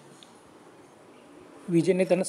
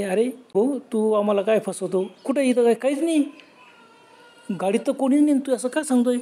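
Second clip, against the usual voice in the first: raised, higher pitched accusing tone; incredulous men scolding a liar; accusing disbelief; 4 semitones higher than usual. Acted. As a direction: call his bluff, exasperated. Men accuse Vijay of lying.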